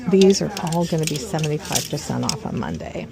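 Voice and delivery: talking while chewing gum. Real, not acted. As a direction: gum in the mouth. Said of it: "I'm sorry about the gum chewing".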